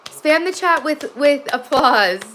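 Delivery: high, loud, slow cheer to the chat; rally the viewers to applaud; excited announcement. Real, not acted. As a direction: mom cheering her son's wake-up to chat. Announcing son waking to chat.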